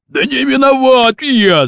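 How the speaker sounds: high, drawn-out wail of innocence; protesting cry. A narrator's reading. Baton defends himself to Kurochkin, protesting cry. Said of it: "закричал Батон".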